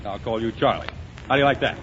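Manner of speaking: ordinary talk, nothing marked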